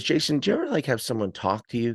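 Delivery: mom's question. Retold or imitated. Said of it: "And she says to me".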